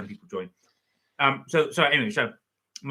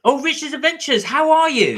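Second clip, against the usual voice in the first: much higher, louder happy hello; excited greeting; 13 semitones higher, 10 dB louder than usual. Real, not acted. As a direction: greet a friend with delight. Greeting a viewer on live.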